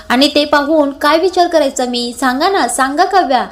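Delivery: mildly agitated, insistent questioning; hyper, worked-up. Acted. Parth pressing Kavya about his worry, mildly worked-up. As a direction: demand answers with a touch of exasperation. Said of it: "असं Parth hyper झालेला असतो".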